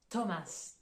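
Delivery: "Thomas" with a plain T and the final S sounded; English Thomas. Shown as a demonstration. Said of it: "le prénom Thomas".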